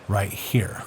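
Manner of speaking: quick whispered aside; hushed aside to the viewer. Real, not acted. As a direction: drop to a whisper pointing at it. Whispered aside while showing example.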